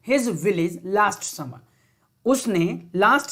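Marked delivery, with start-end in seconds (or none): 0.1-1.6 slow dictation read. Shown as a demonstration. Teacher reads sentence slowly.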